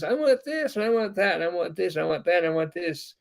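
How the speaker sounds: put-on high, sing-song child's nagging, starting high and settling; mock a small child whining for everything; whiny kid. A little kid nagging his mom in Super Target, whiny.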